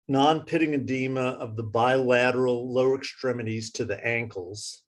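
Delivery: slowed down. Real, not acted. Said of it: "slowing down for you".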